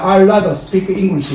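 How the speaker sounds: drawn-out rather, slowly; slow model sentence. Shown as a demonstration. Teacher shows how rather is said, slowly. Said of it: "I rather 이렇게 발음합니다".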